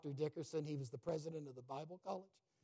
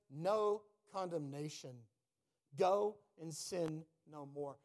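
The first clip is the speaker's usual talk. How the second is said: slow, deliberate words of mercy; solemn slow quote; 4 dB louder, slower than usual. Retold or imitated. Preacher quoting Jesus forgiving the woman, slow and tender. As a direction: let each word land gently.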